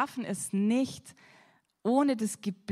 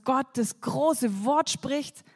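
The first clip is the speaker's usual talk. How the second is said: booming voice; 4 semitones higher, 5 dB louder, slower than usual. Acted. Contrast with the whispering God.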